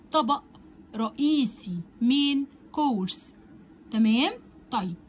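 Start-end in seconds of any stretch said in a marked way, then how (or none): 2.0-3.3 مين كورس said slowly with a hard k at the start of كورس; main course with a hard k. Shown as a demonstration. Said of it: "والسي هنا بتتنطق كأنها ساوند حرف الكي".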